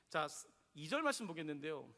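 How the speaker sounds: ordinary talk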